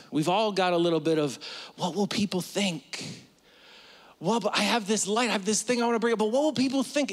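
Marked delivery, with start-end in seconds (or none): 1.8-7.1 rising higher and more fretful; anxious inner voice. Retold or imitated. Preacher voicing a fearful inner doubt, rising higher. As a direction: let the worry climb line by line.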